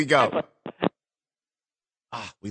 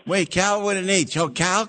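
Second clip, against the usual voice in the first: ordinary talk, nothing marked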